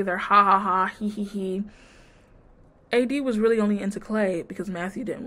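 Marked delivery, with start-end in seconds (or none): 0.2-1.6 spoken fake giggles, no real laugh; mock cheery laughter. Recapping a couple acting like everything is cool, mock laughter. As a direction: say the laughs as words, mocking. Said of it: "They're cheery".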